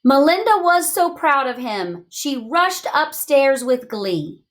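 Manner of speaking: bright storybook reading, slowing at the end; reading to children. Acted. Teacher reads the snowman story aloud to children. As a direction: read it warmly to the class.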